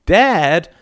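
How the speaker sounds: high, loud protest; daughter's exasperated shout; outraged cry. A narrator's reading. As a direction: cry out in dismay. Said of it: "cried Alice".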